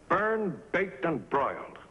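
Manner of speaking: bitter agent listing grievances; angry sarcasm. Acted. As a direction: spit out burned, then grind out the rest. Agent complains angrily.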